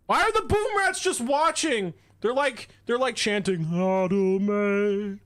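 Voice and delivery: high amused disbelief; incredulous high exclaiming. Real, not acted. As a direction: squeal at the absurd chant. Mock chant of rats.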